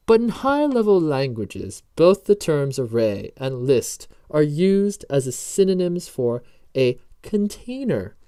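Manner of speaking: slow, drawn-out mock British accent; fake British accent. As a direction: lecture with deliberate weight in a fake British accent. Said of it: "My fake British accent".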